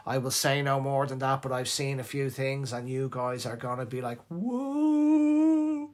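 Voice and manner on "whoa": high, loud amazed whoa. Pretend. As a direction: gasp it out in awe. Amazed reaction to new products.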